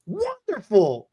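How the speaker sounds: slow, drawn-out Wonderful in a mock foreign accent; imitating the happy foreign cashier. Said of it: "his accent was so heavy".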